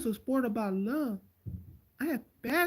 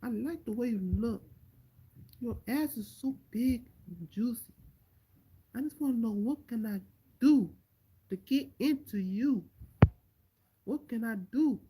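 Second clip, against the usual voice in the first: Anderson Silva flirting. Pretend. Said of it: "picture Anderson Silva trying to spit some game".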